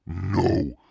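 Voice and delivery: loud, high-pitched acted protest; cry of protest. A narrator's reading. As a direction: cry out as a frightened brother. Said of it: "uttered a harsh cry of protest".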